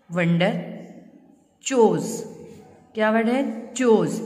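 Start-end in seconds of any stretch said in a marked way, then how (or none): 3.7-4.2 "चोज" with a long o as in chose; chose, not choose. Shown as a demonstration. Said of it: "इसको चूज नहीं पढ़ना".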